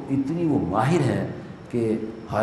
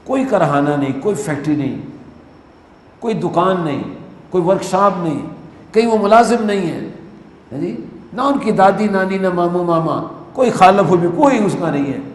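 preaching crescendo; 6 semitones higher, 5 dB louder than usual. Real, not acted. Preacher builds list about kites.

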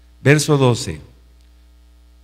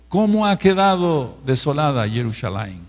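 painful exclamation; 2 semitones higher than usual. Shown as a demonstration. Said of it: "es una admiración, pero de mucho dolor".

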